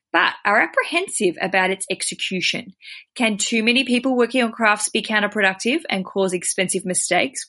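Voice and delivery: reading a listener's letter aloud. Acted. Host reading a bride's letter to guest, read-aloud style.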